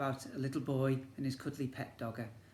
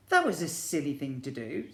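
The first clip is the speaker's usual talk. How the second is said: a touch louder, gentle telling-off; mild scolding; 6 dB louder than usual. Acted. Bernard's mum tells Bernard off, mild.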